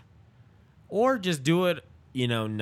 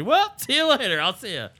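dismissive brush-off; 10 semitones higher, 6 dB louder than usual. Retold or imitated. Brushing off the Scientologist.

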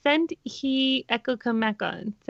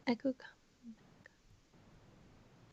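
slow whisper; 19 dB quieter, slower than usual. Shown as a demonstration. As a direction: whisper it slowly, testing the sounds. Guessing phrase, tries it softly.

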